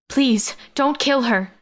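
pleading. A narrator's reading. Rose pleading with her captors for Gwen's life. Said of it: "Rose pleaded in English".

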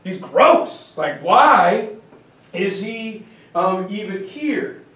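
lightly hammed-up scandalised disbelief, pitch lifting; mock appalled. European nobles gossip about the barbarian at dinner, mock appalled. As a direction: play at being disgusted by a boor. Acted disgusted nobles watching Peter eat.

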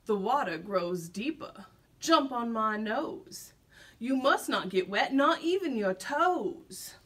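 slow urgent sly fox; sly fox crying out. Acted. Fox urges the gingerbread man onto his nose. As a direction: press him to move, slowly. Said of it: "the fox cried out".

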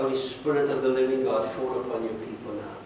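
earnest pastoral prayer, swelling then settling; fervent prayer. Acted. Pastor praying over the people at the altar, fervent. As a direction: pray over them with rising fervour.

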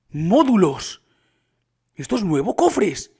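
loud, amazed exclamations; thrilled, punchy outburst; excited discovery. Real, not acted. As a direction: call out each find in surprise. Discovers modules and chests.

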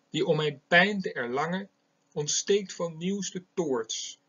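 put-on slow, solemn reading of an old sonnet; measured poetic reading; poem recitation. Shown as a demonstration. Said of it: "Eén zo'n gedicht wil ik hier voorlezen".

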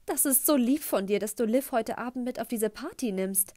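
high, beaming mom voice; mother beaming at her future stepson; gushing mother. Acted. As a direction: gush it at the boy, all sweetness. Mom's gushing lunch remark.

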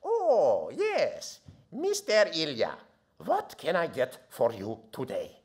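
a hint of the friendly counter lady; sandwich lady voice. Arab lady at the counter greeting a regular, lightly voiced. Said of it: "and she says".

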